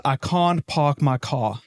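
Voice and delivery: slow South African vowels; deliberate South African accent; South African accent demo. Shown as a demonstration. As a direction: show the South African "can't park my car" vowels. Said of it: "why don't you try to say this?".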